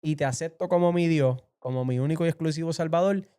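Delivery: reenacted fervent vow, easing toward the end; retold vow aloud. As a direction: swear it out loud, point by point. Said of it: "hablé en voz alta y dije".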